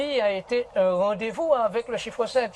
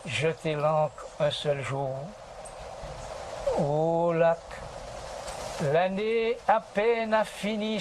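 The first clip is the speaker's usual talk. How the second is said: declaiming poetry. Shown as a demonstration. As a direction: recite Lamartine like a tragic stage actor. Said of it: "déclamer quelques vers".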